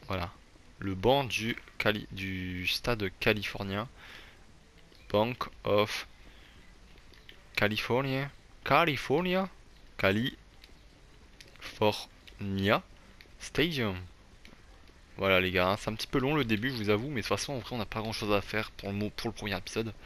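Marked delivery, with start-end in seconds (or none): 5.1-14.0 playful drawn-out chant of the name; sing-song drawl. Pretend. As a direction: stretch each "California" with rising pitch, much higher on the middle one. (nom étiré en chantonnant, de plus en plus aigu)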